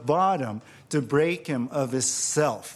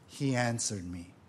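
lower, softer, after a pause; hushed reveal; 6 semitones lower, 7 dB quieter than usual. Acted. Preacher revealing God's answer to the congregation, hushed. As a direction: drop low and soft for the answer.

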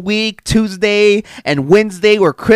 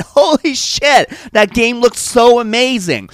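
mock amazement; 6 semitones higher than usual. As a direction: act out being wowed by an ad. Acting out his impressed thought at commercials.

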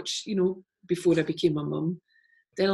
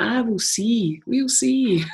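playful retort; 4 semitones higher, slower than usual. Retold or imitated. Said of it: "And I'm like".

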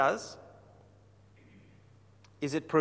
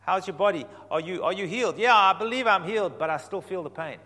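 wrong way round; 2 semitones higher, 3 dB louder than usual. Shown as a demonstration. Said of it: "Here's how we generally get it wrong".

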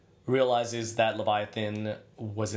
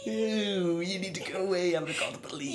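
disgusted, high; 9 semitones higher than usual. Retold or imitated. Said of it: "I'm like".

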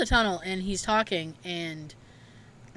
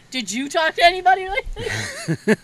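imitating dad; 8 semitones higher, 3 dB louder than usual. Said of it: "He's like".

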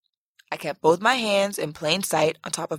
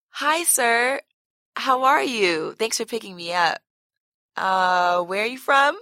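sweet, higher polite small talk; sweetly; 4 semitones higher than usual. Acted. Flirting with the Uber driver on request, sweet and higher. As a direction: charm the driver with a sugary voice. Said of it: "I said sweetly".

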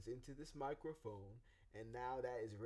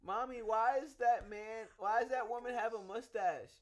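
put-on child voice; 10 semitones higher, 10 dB louder than usual. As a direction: ask it like a blunt little kid. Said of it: "children will say".

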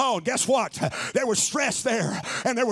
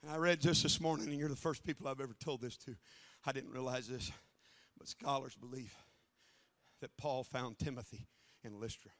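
far softer and lower, like sharing a secret; confiding hush; 10 semitones lower, 14 dB quieter than usual. Acted. Pastor confiding something new to his people, hushed. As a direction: lean in and tell them quietly.

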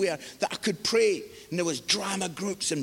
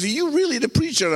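higher, quick incredulous question; young guy; 4 semitones higher, 4 dB louder, faster than usual. Retold or imitated. Young guy questioning the man from the cupboard, disbelieving. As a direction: imitate a doubtful young man, pitched up. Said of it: "this young guy looks at me".

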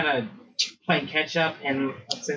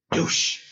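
imitated thud. Imitates the fall in the story.

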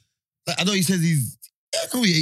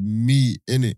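lower, flat "Meat, innit?"; deep mock host; 8 semitones lower, 3 dB louder, slower than usual. Retelling the host's answer, deep mock voice. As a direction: drop the voice for the host.

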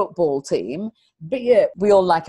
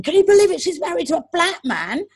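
scandalised gossiping teacher; 9 semitones higher than usual. Retold or imitated. Teacher gossiping to colleagues about the speaker, mock scandalised. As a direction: mimic a shocked teacher spreading gossip. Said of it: "the teachers came out ... going".

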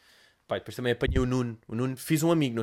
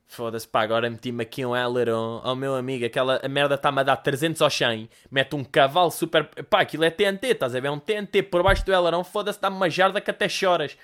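car guy voice. Retold or imitated. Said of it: "o gajo falava de carros".

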